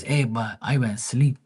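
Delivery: a hint of dad's voice, rising at the end; imitating dad. Dad repeating his excuse to his son, lightly imitated. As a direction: lightly mimic father's lilting excuse. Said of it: "That's how he talked".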